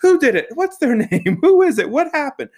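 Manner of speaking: imitated high screech, loud rapid-fire questions; screaming. Grandmother launching out of her chair, mock screaming.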